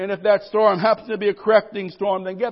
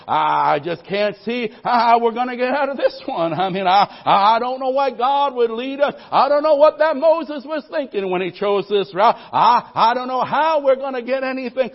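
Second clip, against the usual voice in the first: louder, complaining crowd voice; grumbling Israelites; 3 semitones higher, 5 dB louder than usual. Retold or imitated. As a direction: fret loudly like a doubting people. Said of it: "can't you just hear the people of Israel".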